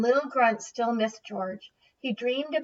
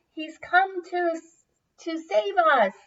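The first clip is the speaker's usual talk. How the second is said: relieved; 8 semitones higher, 3 dB louder than usual. A narrator's reading. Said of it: "said Little Grunt".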